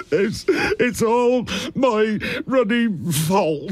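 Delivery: slow, stammering sobbed confession; sobbing. Acted. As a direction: blurt it out through sobs. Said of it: "He sobbed".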